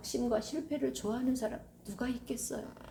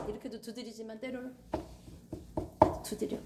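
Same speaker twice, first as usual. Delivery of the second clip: gentle voice of the Lord. Acted. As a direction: coax a hurt heart to open. Voices Jesus knocking softly.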